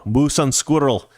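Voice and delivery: slow, mock Russian accent on request. Viewer asks host for a Russian line, slow mock Russian accent. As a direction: drag it out like a cartoon Russian spy. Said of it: "Now say moose and squirrel".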